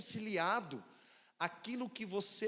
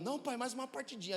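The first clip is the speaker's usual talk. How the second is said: put-on higher pleading little-boy voice; son pleading; 5 semitones higher than usual. Five-year-old son begging his dad for one more game, pleading. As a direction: beg for one more game like a small kid. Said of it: "ele ficou segurando".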